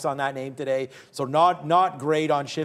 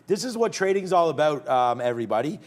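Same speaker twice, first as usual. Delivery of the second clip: kindergarten teacher. Real, not acted. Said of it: "sound like I'm the kindergarten teacher".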